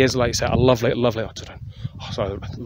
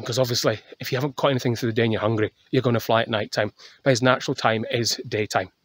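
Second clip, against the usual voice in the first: breathless after a hill walk; out of breath. Real, not acted. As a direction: talk while catching your breath. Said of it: "sorry, I'm out of breath".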